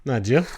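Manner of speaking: "Not Jew" as nah-joo with questioning rise; Jersey slurred pronunciation. Shown as a demonstration. Jersey native taking up the correction, slurred reply. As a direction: say "nah, did you?" as two syllables. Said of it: "it's not even no".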